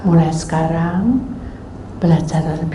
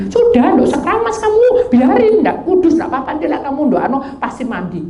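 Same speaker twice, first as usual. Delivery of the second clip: high-pitched devil's persuasion, acted; bujukan iblis; 7 semitones higher than usual. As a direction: talk them out of it, pitched high and insistent. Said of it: "strategi iblis". (suara iblis membujuk, bernada tinggi)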